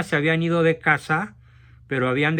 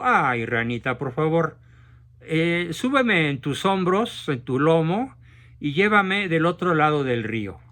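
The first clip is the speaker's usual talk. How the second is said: a touch of honeyed coaxing; lightly sweet, wheedling ask; sweet seductive tone. Acted. Scorpion sweetly coaxing the frog to carry him, mild honeyed tone. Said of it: "en un tono muy melifluo, muy dulce, muy seductor".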